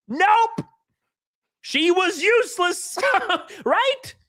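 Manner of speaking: high squeaky nope, then laughing through it. Real, not acted. Streamer laughing about a useless pilot in a movie. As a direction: crack up at your own punchline.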